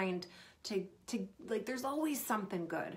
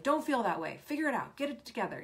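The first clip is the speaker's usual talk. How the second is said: dismissive parent; 3 semitones higher, faster than usual. Retold or imitated. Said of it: "Instead of like".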